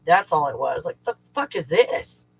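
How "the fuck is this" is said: higher, mildly exasperated retold question; frustrated. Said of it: "it's fucking frustration".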